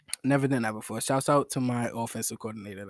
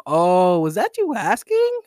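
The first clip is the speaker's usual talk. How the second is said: put-on high, louder girl voice asking; girl's voice; 5 semitones higher, 6 dB louder, slower than usual. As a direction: play her sweetly puzzled. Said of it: "then she'll go".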